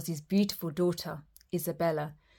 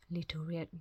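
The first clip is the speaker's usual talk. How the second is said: unvoiced whisper; 12 dB quieter than usual. A narrator's reading. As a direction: breathe it out.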